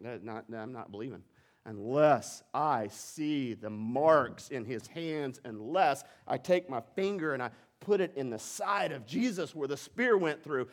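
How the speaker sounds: low refusal building to slow, loud insistence; lightly acted stubborn disbelief, growing emphatic; doubting Thomas. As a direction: dig in and refuse, stretching the words as it builds. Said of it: "and Thomas said".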